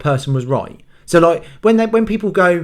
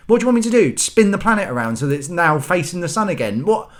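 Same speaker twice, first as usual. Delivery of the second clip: exasperated scolding; 3 semitones higher, faster than usual. Retold or imitated. Scolding daughter at three am.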